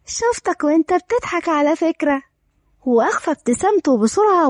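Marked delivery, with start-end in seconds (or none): 0.0-2.2 lightly mischievous; a touch of playful needling; teasing. Acted. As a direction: tease as if catching someone out. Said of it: "دارين بمشاكسة".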